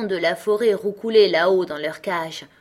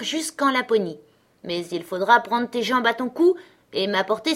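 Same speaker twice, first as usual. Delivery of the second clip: put-on a bossy young robber girl, a touch higher; 4 semitones higher, 3 dB louder than usual. Robber girl inviting Gerda to bed, a hint of bossy. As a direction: play the wild robber girl, lightly.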